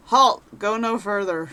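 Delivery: sharp commanding halt call; guard's halt. Acted. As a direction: stop the traveller at the gate. Guard stops the player.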